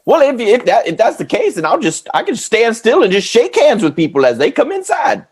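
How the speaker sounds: high, goofy clown voice; lightly played silly clown. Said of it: "your clown voice".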